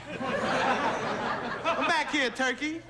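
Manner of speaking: slow, mocking defiance to a cop; Nat mouthing off. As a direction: drag it out, taunting. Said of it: "Nat says".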